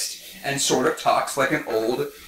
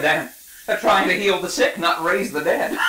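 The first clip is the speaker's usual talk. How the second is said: Jackson impression; 3 semitones higher than usual. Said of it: "gonna do a Jackson bit".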